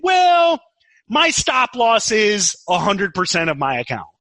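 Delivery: high, airy mock-casual "Well"; lightly voiced careless trader; mock confident trader. Mocking hypothetical trader quote.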